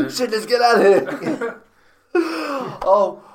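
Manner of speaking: laughing through words. Real, not acted. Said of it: "my chest hurts".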